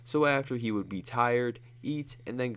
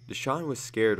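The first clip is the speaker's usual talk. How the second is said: usual speaking voice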